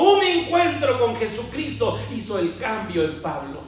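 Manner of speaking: forceful preacher hammering parallel phrases; rousing sermon delivery; fervent preaching. Real, not acted. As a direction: proclaim it with conviction, pushing each repetition. Preaches Paul's change to congregation.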